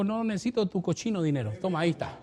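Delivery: calm divine rebuke; voice of God. Retold or imitated. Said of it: "Y Dios le dijo".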